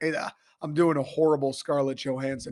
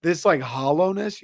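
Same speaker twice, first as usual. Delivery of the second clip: louder, pushed hollow rasp; full blast; 4 dB louder than usual. Shown as a demonstration. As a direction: push the hoarse voice out at full volume. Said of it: "when I go full blast".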